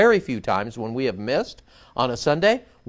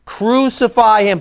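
crowd crying out; 8 semitones higher, 7 dB louder than usual. A narrator's reading. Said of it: "They cried out".

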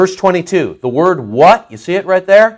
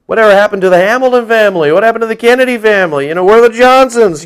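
lightly acted wondering, higher pitched; feigned concern; 4 semitones higher, faster than usual. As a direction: rattle off casual questions in a higher voice. Acting diners wondering about absentees.

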